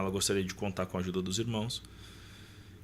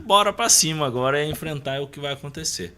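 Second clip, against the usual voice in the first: much louder and higher, fired up; defiant determination; 5 semitones higher, 8 dB louder than usual. Retold or imitated. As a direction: shout it out like you won't be beaten. Defiant declaration after accident. (determinado, bem mais alto e agudo)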